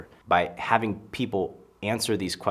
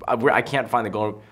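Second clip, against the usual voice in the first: flustered calling; 3 semitones higher, 5 dB louder, faster than usual. Retold or imitated. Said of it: "yelling out".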